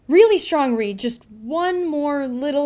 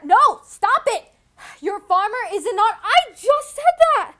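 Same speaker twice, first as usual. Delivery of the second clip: laughing; 7 semitones higher, 4 dB louder than usual. Real, not acted. Cracking up over flubbed lines.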